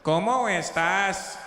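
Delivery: slow "¿Cómo estás?" with a clear s, no lisp; unlisped student repeat; clean Latin American Spanish. Retold or imitated. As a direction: say "estás" with a plain s. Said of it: "don't speak Spanish with a lisp".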